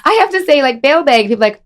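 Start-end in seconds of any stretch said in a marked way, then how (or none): 0.8-1.3 put-on Fargo accent, raised pitch. Retelling her own mispronounced name to friends, Fargo accent. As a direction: say "bag" with a Fargo vowel.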